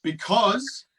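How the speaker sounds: one word at a time, halting; each word dropped alone, long gaps; staccato. Acted. Word at a Time story game.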